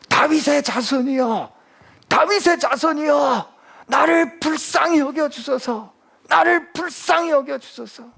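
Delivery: high, drawn-out shouted plea; crying out for mercy. Acted. Blind beggar calls to Jesus for mercy, high desperate cry. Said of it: "사람들이 막 소리를 지르니까".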